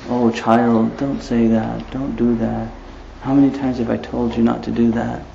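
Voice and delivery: a hint of a softly scolding mom; lightly voiced mother, hushed and gentle. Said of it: "mom's talking to the child as if she was ill".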